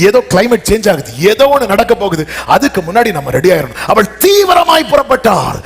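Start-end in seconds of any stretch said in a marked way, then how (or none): 3.9-5.6 urgent shout. Acted. Preacher stressing urgency.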